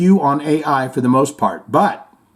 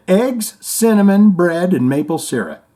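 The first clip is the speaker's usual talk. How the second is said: mock toast; 4 semitones higher, 4 dB louder than usual. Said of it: "raised my champagne glass and said".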